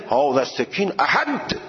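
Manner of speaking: هذا السکین احد read the Persian way; Persian-style Arabic. Shown as a demonstration. Teacher showing Persian-style Arabic reading. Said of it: "خیلی صفر نگید".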